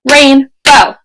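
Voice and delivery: "Rainbow" split into two clapped beats, RAIN then BOW; clapped syllables. Shown as a demonstration. Teacher claps out "Rainbow" for kids at home, syllable by syllable. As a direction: clap out "Rainbow" in two parts. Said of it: "practice at home the example of rainbow".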